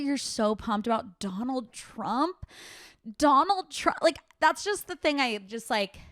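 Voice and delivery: breathless after the rant; out of breath. Real, not acted. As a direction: talk while catching breath. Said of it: "I'm out of breath".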